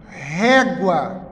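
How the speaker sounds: "régua" said as one connected word, ré stressed; whole word. Shown as a demonstration. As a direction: give "régua" whole, leaning on ré. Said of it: "Segundo exemplo". ("régua" inteira, com ênfase no ré)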